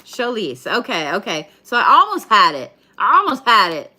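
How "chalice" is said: "Chalice" said firmly as SHAL-iss, falling; corrected try. Shown as a demonstration. Reader finally lands the card name, confident. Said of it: "How do I say this?".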